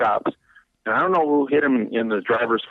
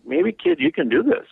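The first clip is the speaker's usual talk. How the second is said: higher, lifted voice of inner pep talk; hopeful self-talk; 10 semitones higher than usual. Retold or imitated. Young driver psyching himself up, high and hopeful. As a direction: cheer yourself on, voice rising. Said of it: "So I was, like, going".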